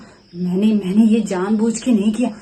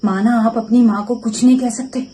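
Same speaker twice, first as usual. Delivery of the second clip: building from raised voice to a furious shout at the end; angry shout; 3 semitones higher, 6 dB louder than usual. Acted. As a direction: let the anger swell until you're yelling at him. Wife confronts husband over insults. (गुस्से में बढ़ती हुई चीख)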